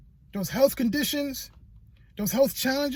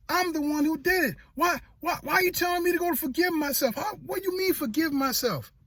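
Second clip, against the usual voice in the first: higher, pleading self-blame; protesting; 5 semitones higher than usual. Retold or imitated. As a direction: plead it up high, blaming yourself. Speaker retells protesting to God.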